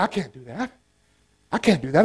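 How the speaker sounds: put-on scared girl. Frightened girl, much quieter.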